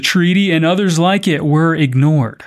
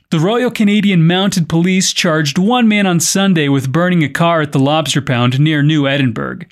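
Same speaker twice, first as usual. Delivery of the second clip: measured podcast news delivery; news script read with clear phrasing. Acted. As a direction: read it out as a news story, evenly projected. Reads the news story.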